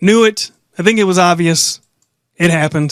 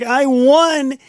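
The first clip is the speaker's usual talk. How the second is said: high, squeaky mock celebration; mocking a giddy champion; mock happy champion; 7 semitones higher, much slower than usual. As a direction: parody her giddy win. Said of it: "she's very emotional and she's very happy and she's like".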